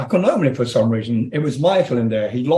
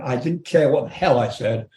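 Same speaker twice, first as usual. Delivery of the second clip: ordinary talk, nothing marked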